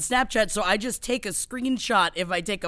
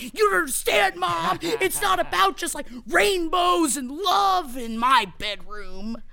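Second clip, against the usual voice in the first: put-on teen yelling; 5 semitones higher than usual.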